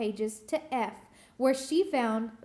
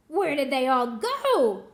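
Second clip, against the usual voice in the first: louder angry call; shout; 7 dB louder than usual. Acted. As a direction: yell it at the duck. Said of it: "Gritch shouted to a duck".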